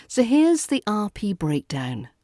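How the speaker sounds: ordinary talk, nothing marked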